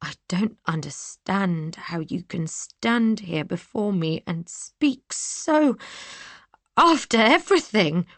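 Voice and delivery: slow, barely held back hurt; slow words fighting back a tremor; hiding a tremor. Acted. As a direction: keep the shake out of the voice. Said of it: "hiding the tremor in my voice as best I could".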